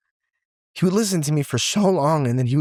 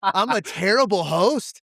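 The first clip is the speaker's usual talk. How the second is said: self-mocking; 7 semitones higher, slower than usual. Real, not acted. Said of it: "I suck at podcasting".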